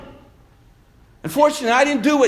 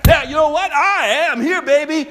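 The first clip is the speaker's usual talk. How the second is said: preacher hamming up Peter's bragging; lightly voiced cocky Peter promising to die with Jesus; mock-brave boast; 4 semitones higher than usual. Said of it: "who so bravely said".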